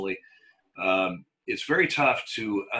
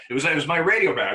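radio DJ voice; 5 semitones higher, 5 dB louder than usual. Shown as a demonstration. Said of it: "I can talk with a big, big voice like this".

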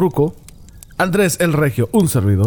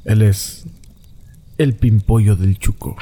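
lower, hammed-up announcer build-up; mock grand announcer; 3 semitones lower than usual. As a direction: introduce the guest like a cheesy radio host. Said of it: "la voz que rascaricia".

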